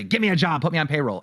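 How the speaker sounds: high, pushy mock plea; a host mimicking her entitled ask, teasing demand. Host mocks streamer asking for a job, in a high pushy tone.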